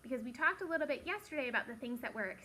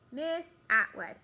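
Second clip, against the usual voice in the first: loud, slow and deliberate; group echo; 8 dB louder than usual. Shown as a demonstration. Teacher leading the class in echoing a colleague's name, loud echo. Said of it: "Let's all say it".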